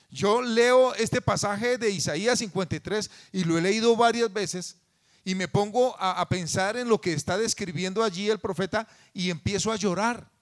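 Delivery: loud, high, impassioned sermon voice; fervent preaching. Acted. Pastor preaching passionately to his congregation. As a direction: preach it with rising fervor.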